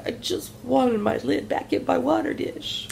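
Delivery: high, put-on kitty voice; voiced pet cat. Owner imitates her cat wanting its lid back, high cat voice. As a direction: speak for the cat, high and plaintive. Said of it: "She was like".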